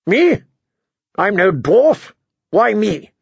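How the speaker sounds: put-on high, indignant young king; high-pitched offended disbelief; confused. A narrator's reading. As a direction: squeak it in baffled protest.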